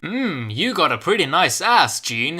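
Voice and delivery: cheesy mock flirting tone; mock seductive. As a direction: overplay a sleazy come-on, half joking. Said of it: "he said in a seductive tone".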